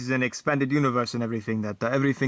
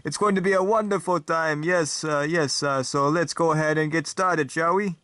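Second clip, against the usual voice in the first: lightly voiced vampire host, raised in pitch; vampire talk show host; 2 semitones higher than usual. Talk show host welcoming viewers in a light vampire accent. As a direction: greet the audience as a grand vampire host.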